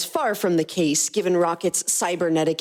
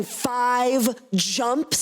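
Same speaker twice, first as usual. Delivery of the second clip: alarmed; 6 semitones higher than usual. Acted. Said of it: "Gamora's parental instincts were kicking in".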